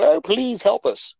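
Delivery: high, slow pleading beggar; begging plea. Retold or imitated. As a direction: beg on bended knee, drawn out. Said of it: "getting on bended knee and go".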